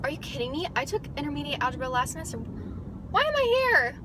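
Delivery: mock outraged student, pitch shooting up; exasperated disbelief. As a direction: voice climbs high and slows on the last question. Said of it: "And I'm like".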